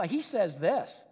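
slow, mock-quoting delivery; sarcastic mimicry. Paul's mockers restating his words, lightly sarcastic. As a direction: draw it out to lightly mimic him. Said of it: "mimic the way he says it".

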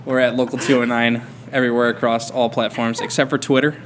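radio announcer read; sultry radio voice. Pretend. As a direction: read it like a late-night DJ. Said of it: "My sultry radio voice".

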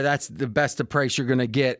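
lightly put-on Italian accent. Host pitching a hockey package price, light Italian accent. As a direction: slip into a mild mock-Italian salesman accent. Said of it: "I don't know why I went into an Italian accent".

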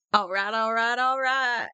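lightly imitated actor's catchphrase, run together; Matthew McConaughey. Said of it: "I'm just hearing his voice in my head".

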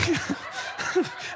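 soft, voiceless imitated whoosh; quiet comic sound effect; made-up appearance sound. Shown as a demonstration. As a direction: make a silly little noise of popping into view. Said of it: "I don't know what that sound was".

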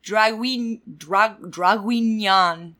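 slow, careful Draguignan; attempting French. Shown as a demonstration. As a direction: sound out Draguignan syllable by syllable. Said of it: "a place in France that I cannot pronounce".

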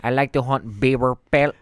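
put-on hammy Canadian accent, half laughing. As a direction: play a goofy Canadian hunter. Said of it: "best Canadian accent I've ever seen".

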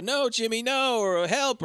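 mock pleading woman. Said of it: "an impression of her".

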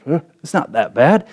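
relaxed, offhand reassurance; easy, unconcerned shrug; calm and unbothered. Retold or imitated. Jesus answering the panicked disciples, calm and offhand.

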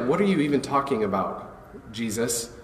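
lightly voiced, anxious disciples asking why; a hint of worried followers pleading; puzzled followers. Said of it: "Questions like".

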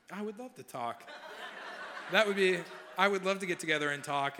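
hammed-up excited yes with a laugh; overeager reply. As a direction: gush like a hopeful suitor. Eager reply to her text.

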